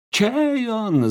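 high, loud shouted question; shouting. A narrator's reading. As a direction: yell it at her. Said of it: "заорал Вальдемар". (громко, выкрикивая вопрос)

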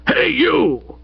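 high, drawn-out holler; booming shout. A narrator's reading. Old Stoker hails the butler, booming. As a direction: boom it out to summon someone. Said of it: "boomed old Stoker".

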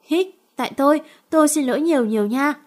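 lightly sniffling, almost crying; on the verge of tears. Acted. She apologizes to injured Thiện, mildly tearful. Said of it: "nhỏ nói như mếu".

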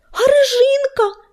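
high, loud cry of dismay; drawn-out, high-pitched alarm; distressed exclamation. A narrator's reading. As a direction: cry out in sudden turmoil. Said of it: "в смятении воскликнул он".

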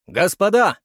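loud, high exclamation; exclaiming. A narrator's reading. Curator hails the crowd, exclaiming loudly. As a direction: Uglov calls out, thrilled. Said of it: "воскликнул Углов".

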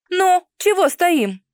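mock-menacing, high, loud, drawn-out challenge; deliberately stern. A narrator's reading. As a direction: put on a threatening voice to get them moving. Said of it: "спросила нарочито грозным голосом".

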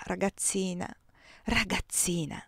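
soft, hushed, tender murmur of endearment. Acted. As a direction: gently soothe the young wife. Husband comforts her tenderly.

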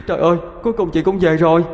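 put-on high, quick child voice; relieved little sibling. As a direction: greet the sister's return, near tears.

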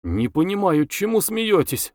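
understated indignant question. A narrator's reading. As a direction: protest with a touch of offence. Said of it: "возмутилась Любаша".

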